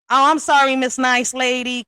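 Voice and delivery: sarcastic mock apology. Real, not acted. Sarcastic jab at a rival.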